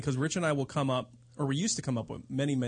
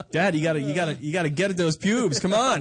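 put-on nagging kid; 4 dB louder than usual. Kid voiced nagging dad.

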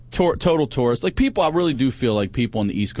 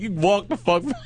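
high-pitched mock dismissal; acted-out gleeful kiss-off; retold taunt; 9 semitones higher than usual. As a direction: throw it back at him, worked up. Retold taunt to dropped hitchhiker.

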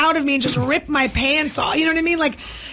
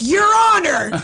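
mock courtroom plea; 3 semitones higher than usual. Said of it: "you can be like".

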